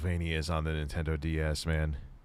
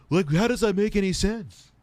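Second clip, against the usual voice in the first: high, loud, incredulous outburst; exasperated disbelief; 11 semitones higher, 5 dB louder than usual. Real, not acted. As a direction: pitch it way up, baffled and indignant. Baffled complaint about online listing.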